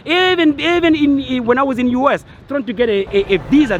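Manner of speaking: pitched high, worked-up insistence; exasperated rant. Real, not acted. Ranting to viewers about getting a visa, exasperated. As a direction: push in high with real frustration.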